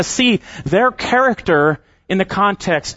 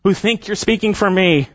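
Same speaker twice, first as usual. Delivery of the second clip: voicing God; 3 semitones higher than usual. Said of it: "He's saying".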